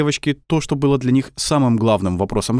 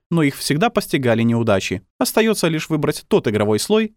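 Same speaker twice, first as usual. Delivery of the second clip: higher, cool and superior tone; haughty woman; 6 semitones higher than usual. A narrator's reading. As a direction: lecture them coldly from above. Arrogant woman explains.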